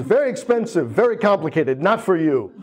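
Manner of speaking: mock snooty Hong Kong salesman. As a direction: look down on the customer. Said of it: "he yells at me".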